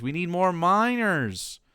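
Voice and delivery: drawn-out, rallying call to the mines; slow recruiting cry, stretching the word miners; patriot recruiter voice. Acted. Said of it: "put on the mask of based Patriot seventeen seventy-six".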